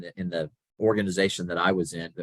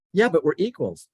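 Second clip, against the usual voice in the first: much higher, louder whiny protest; indignant protest; 10 semitones higher, 5 dB louder than usual. Retold or imitated. Young employee objecting to his boss, higher and indignant.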